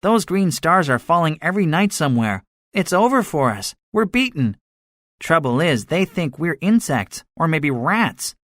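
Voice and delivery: high-pitched soldier declaring defeat; defeatist gunner. A narrator's reading.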